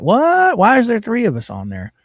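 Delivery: a high, startled What? that settles into a puzzled question; mock shocked double take; retold surprise. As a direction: replay the jolt of seeing three avatars. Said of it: "And I'm like".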